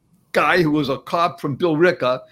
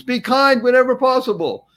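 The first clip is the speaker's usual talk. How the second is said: lifted, louder quote; quoting Dalai Lama; 8 semitones higher, 4 dB louder than usual. Retold or imitated. Host quoting the Dalai Lama, raised. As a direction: read out the quote with reverence. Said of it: "The Dalai Lama has been quoted as saying".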